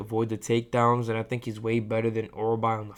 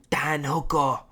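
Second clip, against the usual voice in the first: a hammed-up Aussie voice, higher and louder; clumsy attempt at an Australian accent, much louder on Mate; mock Australian accent; 5 semitones higher, 9 dB louder, slower than usual. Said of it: "I was trying to go for Australian".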